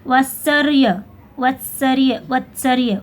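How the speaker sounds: "वत्सर्य" broken as vat-sar-ya; mistaken pronunciation demo. Shown as a demonstration. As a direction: sound out "वत्सर्य" with r after the s. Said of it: "pronunciation आपको करके बता रही हूँ". ("वत्सर्य" का गलत उच्चारण, वत्-सर्-य)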